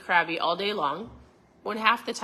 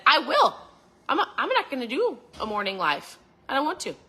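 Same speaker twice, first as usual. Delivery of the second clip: put-on high, loud childish protest; whiny refusal; 5 semitones higher, 3 dB louder, faster than usual. To her husband, a high loud whiny refusal. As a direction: push back like a sulky kid.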